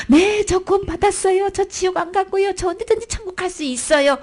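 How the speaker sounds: high-pitched, eager believer's answer; acting out an assured believer, pitched high throughout; confident testimony. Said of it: "우리는 당당하게 구원".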